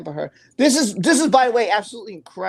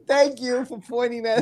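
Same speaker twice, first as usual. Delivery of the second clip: higher voice breaking with laughter; still laughing; 4 semitones higher than usual. Real, not acted. Host thanks viewer for teasing him, still laughing. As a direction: thank them through the giggles.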